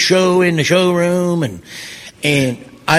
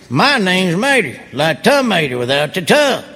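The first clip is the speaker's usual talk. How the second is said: Mater voice. Retold or imitated. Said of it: "and I just went".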